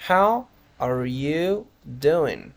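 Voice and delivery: "How... are you... doing", very slow, stretched words. Shown as a demonstration. Teacher models the penultimate greeting for learners, very slow word by word. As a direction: break "How are you doing" into long separate pieces.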